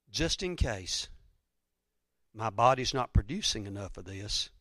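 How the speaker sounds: quiet, deliberate second thought; subdued repetition. Retold or imitated. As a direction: drop the voice and say it confidingly. Same words repeated more softly.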